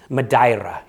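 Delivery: Madeira said muh-DYE-ra; Portuguese pronunciation. Shown as a demonstration. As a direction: Madeira with an eye vowel in the middle. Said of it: "pronounced by the Portuguese Madeira".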